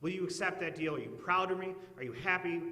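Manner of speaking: hammed-up desperate deal-maker begging God; bargaining with God. Preacher acting a sinner bargaining with God, pleading and loud. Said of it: "we wouldn't say it like that".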